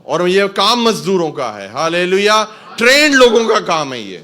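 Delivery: loud declaration, building to a high shout; full-force preaching. Real, not acted. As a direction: drive the point home to the congregation. (جوش سے بلند آواز میں منادی)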